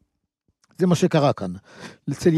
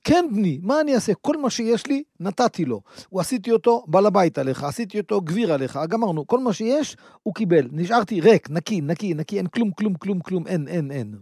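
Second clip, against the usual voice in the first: put-on helpless old father. Isaac tells Esau nothing left.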